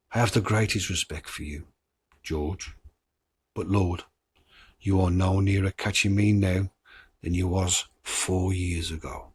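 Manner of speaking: a hint of the hoaxer's creepy calm; reading the hoax tape. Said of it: "I'm not gonna do the accent, but I'm gonna read".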